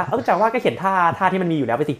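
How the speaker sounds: mock client's high-pitched protest; acted dismissive client. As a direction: brush the developer off as if it were obvious. Acted client brushing off developer.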